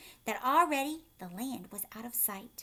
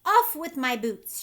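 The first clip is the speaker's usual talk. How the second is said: loud panicked shout; frantic shout; 3 semitones higher, 9 dB louder than usual. A narrator's reading. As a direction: bark it out in panic. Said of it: "shouted the centipede".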